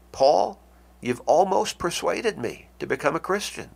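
high and earnest, as if Paul has truly reached him; open-hearted, meaning every word; sincere. Shown as a demonstration. Agrippa sincerely admits Paul nearly convinced him, earnest. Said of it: "Was he being sincere".

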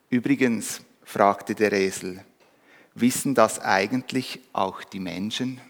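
lively read-aloud with light animal voices; story reading. A narrator's reading. Pastor reading a Christmas fable to the congregation, lively storytelling.

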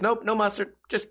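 lightly voiced girlfriend being picky; mimicking girlfriend. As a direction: turn down every topping in a silly voice. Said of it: "And she goes".

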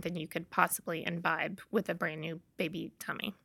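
whispered punchline, dropped to a breath; whispered aside. Real, not acted. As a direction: slip it out as a whispered joke. Joking aside about tiny stomach.

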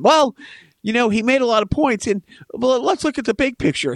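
lightly voiced Trump surrogate making excuses; mock surrogate. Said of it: "his supporters or his surrogates are out there saying".

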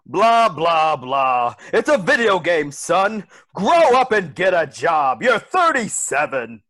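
shouting father losing patience; scolding father. Acted. Father shouting at his thirty-seven-year-old son. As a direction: yell it at the couch.

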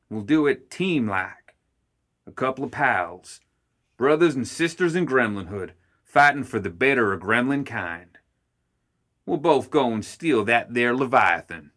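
rally the family like a folksy gremlin boss; rousing gremlin Ma. Acted.

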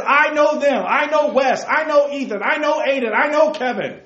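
preacher booming out the Lord's claim; proclaiming Jesus' words. Retold or imitated. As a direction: declare it like a proud shepherd naming his flock. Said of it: "He says".

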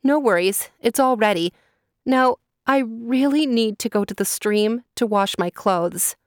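put-on a nervous girl talking her master round; captive girl, eager.

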